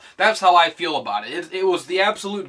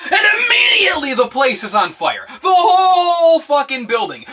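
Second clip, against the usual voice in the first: loud, laughing and yelling; laughing shout; 11 semitones higher, 8 dB louder than usual. Real, not acted. Vlogger laughing hard at the fire scene. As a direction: crack up while shouting it out. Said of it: "laugh cry shout".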